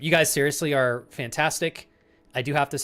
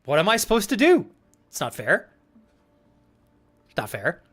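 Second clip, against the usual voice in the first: high, loud whining complaint; mock whiny protest; 6 semitones higher, 4 dB louder than usual. Reading a chat message aloud as a melodramatic whiny victim. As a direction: whine it like a wronged victim. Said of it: "Chris says, quote".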